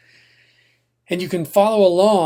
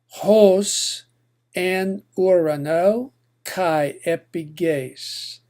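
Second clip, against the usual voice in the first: a slow, careful recitation of Greek; measured Koine Greek prayer reading; slower than usual. Shown as a demonstration. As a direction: read the prayer word by word for learners. Reads Lord's Prayer in Greek.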